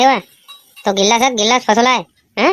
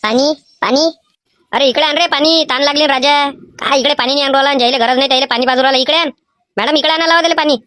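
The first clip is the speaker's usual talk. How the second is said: demanding water; 3 semitones higher than usual. Acted. Exam pupil loudly demands water.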